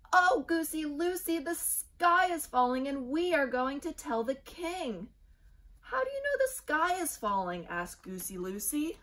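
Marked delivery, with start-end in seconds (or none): 0.1-7.7 high, loud and frantic; panicky Chicken Little. A narrator's reading. Little chick warns everyone, high and panicked. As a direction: cry the news in alarm.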